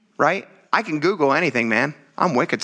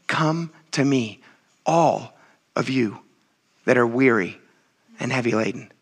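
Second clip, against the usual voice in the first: gentle invitation; 4 semitones lower than usual. Retold or imitated. Jesus calling the weary to him, gentle invitation. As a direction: coax them in tenderly. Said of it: "begging us and saying".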